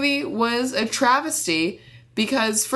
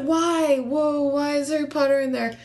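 mock surprise; 5 semitones higher than usual. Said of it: "everybody's like".

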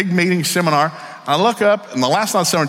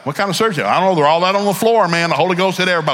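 amazed church member; 5 semitones higher, 4 dB louder than usual. Acted. Imagined church members after communion.

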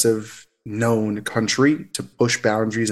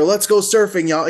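high, louder Californian surfer voice; mock surfer American accent; 7 semitones higher, 4 dB louder than usual. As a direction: play a cartoon surfer American. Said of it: "all these weird accents of ridiculousness".

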